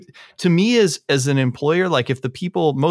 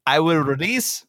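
put-on Italian accent; 4 semitones higher than usual. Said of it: "uh, Italian accent?".

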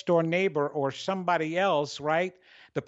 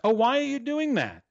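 high, energetic challenge; animated, dramatic self-imitation; 6 semitones higher, 3 dB louder than usual. Shown as a demonstration. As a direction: play up your own excitable voice. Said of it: "sometimes I sound like".

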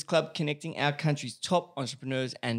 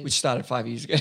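laughing tease; 2 semitones lower than usual. Real, not acted. Host teasing, laughing.

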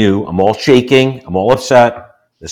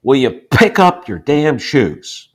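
slow, raised-pitch mock yell at his son; retold yell; 6 semitones higher, slower than usual. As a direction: replay the snap at the kid, slow and higher. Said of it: "So I yelled at my son".

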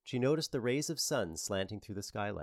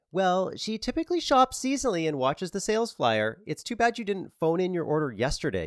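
Cindy voice; 10 semitones higher, 7 dB louder than usual. Acted. Cindy lectures Barbara.

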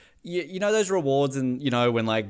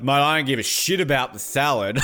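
mock outburst imitating a singer; 4 dB louder than usual. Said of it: "the way Elton is like".

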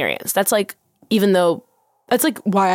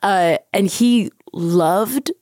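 mock Swedish accent; 3 semitones higher, much slower than usual. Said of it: "this is a French accent, but we're just going to pretend that it is a Swedish".

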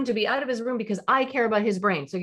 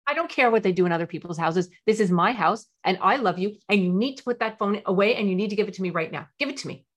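stern parent. Shown as a demonstration. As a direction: order the phone handed over. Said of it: "how a typical parent would do it".

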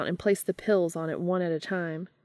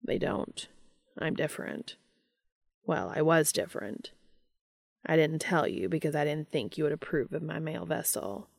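Castiel's voice; 3 dB quieter than usual. Acted. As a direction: keep Castiel hushed and plain, barely acted. Cass explaining himself.

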